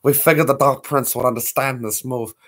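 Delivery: a soft, lightly voiced meek devil's son; a hint of Little Nicky's meek voice. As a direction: mumble it shyly like a timid kid. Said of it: "the Little Nicky voice".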